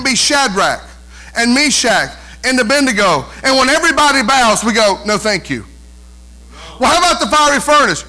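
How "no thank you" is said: mildly acted, lower, unbothered refusal; polite refusal. Preacher voicing those who won't bow, understated refusal. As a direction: drop it down, quietly declining.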